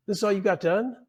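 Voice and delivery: high, mocking boss voice; scornful boss. Boss mocking the apprentice's progress, high and scornful. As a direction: sneer at the work done.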